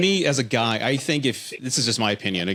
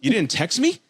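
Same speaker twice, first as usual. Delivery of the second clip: put-on high, puzzled girlish voice, pitched way up; a girl baffled that her date knocked; imitating his date; 11 semitones higher than usual. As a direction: mimic her confusion at the door. Retold date surprised at door.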